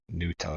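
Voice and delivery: Nutella as NEW-tella; rejected pronunciation. Shown as a demonstration. American dismissing the other way, "Nutella" as "new-tella". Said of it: "It's not made from news".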